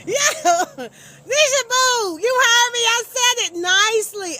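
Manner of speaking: high, loud, teasing cry-voice; mock whine. Real, not acted. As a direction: whine at her playfully.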